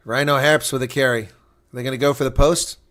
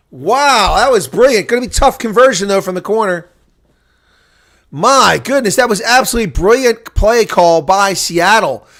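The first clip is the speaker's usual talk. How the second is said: still-thrilled play-by-play, raised voice; excited amazement; 6 semitones higher, 8 dB louder than usual. Real, not acted. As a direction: marvel loudly at a brilliant score. Marvelling at the try just scored.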